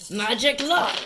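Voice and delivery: loud cheer over dice; excited shout. Real, not acted. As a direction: yell it out in delight. Cheering a lucky dice roll.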